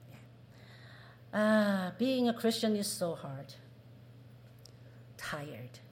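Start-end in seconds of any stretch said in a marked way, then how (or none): 1.3-5.8 weary complaint. Shown as a demonstration. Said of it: "I could hear them saying that".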